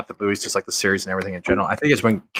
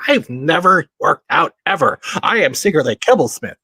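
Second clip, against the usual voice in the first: lightly voiced timid nerd; a hint of a meek weakling; nerdy weakling voice; 5 semitones higher, 4 dB louder than usual. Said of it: "The young Cable that looked like".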